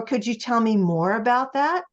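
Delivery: mildly sweet, polite request; lightly sweetened, tactful question. Acted. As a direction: ask gently, keeping the mood intact. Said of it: "gonna sweetly say".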